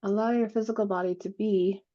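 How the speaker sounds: calm, unhurried meditation guide with long pauses; guided meditation. Acted. Guiding a group to breathe into an expanding bubble, calm meditative voice. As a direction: lead them gently through each breath, leaving space.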